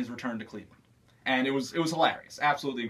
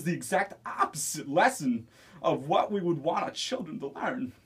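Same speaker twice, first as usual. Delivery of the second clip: Christopher Walken impression. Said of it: "Christopher Walken".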